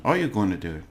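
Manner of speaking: "are you going to do it" with a peak on "are", then falling; question form. Shown as a demonstration. Teacher models the English question for learners, questioning. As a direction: lead on "are", let "going to do it" fall. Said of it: "and a question".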